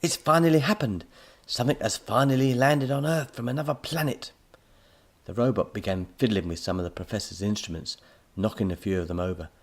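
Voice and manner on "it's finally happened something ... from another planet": high, loud, thrilled announcement; excited shrieking. A narrator's reading. Professor hails a landing from space, excited shriek. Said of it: "he shrieked".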